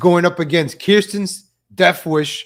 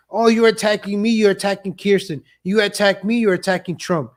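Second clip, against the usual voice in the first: slightly higher-pitched mocking protest; mock complaint; 4 semitones higher than usual. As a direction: mimic an aggrieved accuser, lightly. Mocking her acted complaint.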